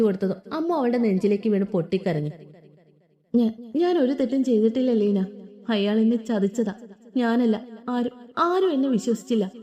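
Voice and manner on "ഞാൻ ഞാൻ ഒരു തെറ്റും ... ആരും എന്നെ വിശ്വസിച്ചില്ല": understated sobbing confession; crying. Acted. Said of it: "കരയുന്ന അവളെ കണ്ട്".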